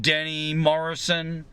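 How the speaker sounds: jovial cricket-commentator flourish; Danny Morrison. Retold or imitated. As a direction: say the name with playful commentator zest. Names jovial commentator, voice lifted.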